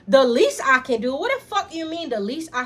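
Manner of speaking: loud outraged echo of his words; demon woken. Retold or imitated. Sister hurling brother's words back, outraged. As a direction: throw his words back at him, furious. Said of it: "it's like he shook up a demon".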